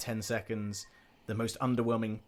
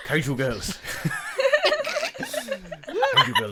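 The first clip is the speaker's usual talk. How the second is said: Gin laughing; 4 dB louder, much slower than usual. Acted.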